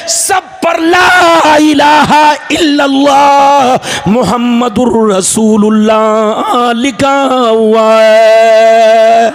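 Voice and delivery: rhythmic chant building to a long held cry; impassioned preaching. Acted. Preacher retells Adam's vision of the throne, chanted preaching. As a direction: build the phrases up, then stretch the last words out.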